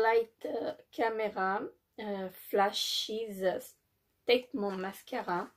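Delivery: English product name in a French accent; hesitant English, French accent; halting French-accented English. Real, not acted. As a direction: stumble through the English name with French sounds. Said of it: "excusez-moi pour mon anglais".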